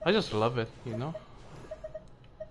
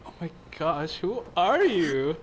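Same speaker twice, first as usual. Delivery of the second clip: put-on girl voice; 3 semitones higher, slower than usual. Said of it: "I'm starting to do my girl voice".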